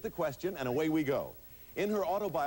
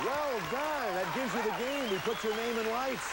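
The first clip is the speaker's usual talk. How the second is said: warm praise; 8 semitones higher than usual. Real, not acted. Host congratulating the winner.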